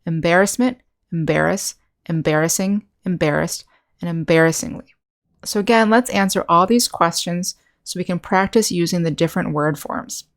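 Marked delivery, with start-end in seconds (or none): 0.0-4.9 "Embarrassment, embarrass, embarrassing, embarrassed, embarrassingly" each stressed on BAR; second-syllable stress. Shown as a demonstration. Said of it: "That's the second syllable".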